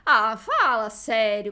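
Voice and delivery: loud, drawn-out protest; exasperated disbelief. Real, not acted. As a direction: scold a friend in disbelief. Friend never saw her favorite film.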